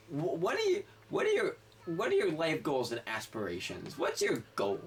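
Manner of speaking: lightly voiced drunk asking, pitch up; drunk woman. Drunk woman quizzing the ride operator on his goals. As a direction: quiz him like a tipsy stranger.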